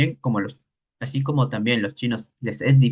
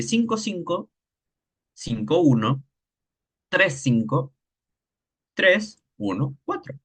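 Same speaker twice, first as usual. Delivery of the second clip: tone numbers; 2 semitones higher, slower than usual. Shown as a demonstration. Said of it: "establecer un orden de este estilo".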